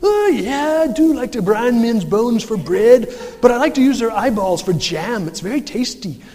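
hammed-up Shrek, loud and high; huge ogre voice. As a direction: boom out like a boastful ogre. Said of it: "there's this huge voice behind him".

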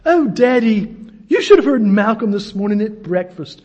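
mock broad English lady; broad English accent. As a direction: put on a loud Englishwoman's accent. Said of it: "she was speaking very loudly".

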